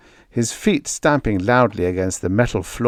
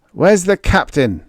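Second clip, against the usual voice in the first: angry shouted demand, louder; yell; 9 semitones higher, 5 dB louder than usual. A narrator's reading. Lost Greg yells at stranger, furious. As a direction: bark it across the storeroom. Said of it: "Greg yelled back".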